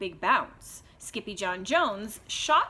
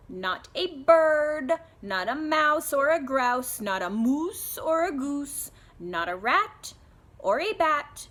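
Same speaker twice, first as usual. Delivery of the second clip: slow, louder, each item hammered; emphatic lecture; 5 semitones higher, 5 dB louder than usual. Acted. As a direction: spell it out for the stubborn kitten. Mother's rhyming lecture.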